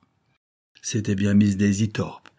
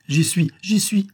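slow eager whisper; realizing; 11 semitones higher, 4 dB louder than usual. A narrator's reading. Detective remembers the dish, slow whisper. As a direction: whisper it slowly as it dawns on him.

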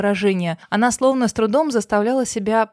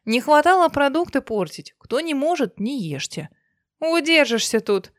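grumbling housekeeper; 5 semitones higher than usual. Acted. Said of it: "домработница направилась обратно на кухню".

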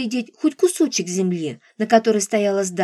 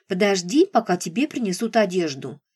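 squeaky mocking mimicry; 3 semitones lower than usual. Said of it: "передразнила она писклявым голосом".

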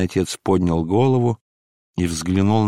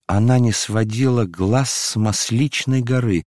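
ordinary delivery, nothing marked

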